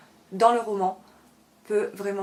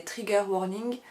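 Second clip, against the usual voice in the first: English term in a French accent. Real, not acted. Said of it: "dit avec mon joli accent français".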